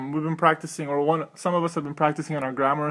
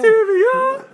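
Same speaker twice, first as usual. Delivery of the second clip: ad announcer; 8 dB louder, slower than usual. Pretend. Yogurt ad style joke.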